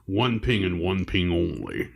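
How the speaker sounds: put-on slow, hammy Scottish accent as Sean Connery; a clumsy Sean Connery Scottish accent; bad Scottish accent. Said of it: "that's a horrible accent".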